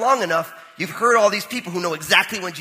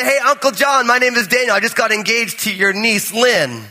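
cheeky greeting; 5 semitones higher than usual. Retold or imitated. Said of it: "And I say".

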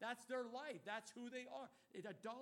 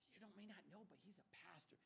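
discreet warning; 11 dB quieter than usual. Retold or imitated. Coworkers tipping each other off about the pastor, hushed warning. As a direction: imitate a hushed word of caution.

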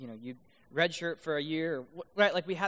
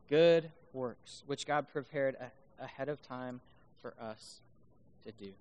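scripture reading; 5 semitones lower than usual. Real, not acted. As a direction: read the verse out, settling low at the end. Finishes reading the verse.

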